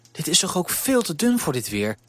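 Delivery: tut-tut at the thin shawl; mildly scolding baker's wife; disapproving. Acted. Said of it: "zei ze afkeurend".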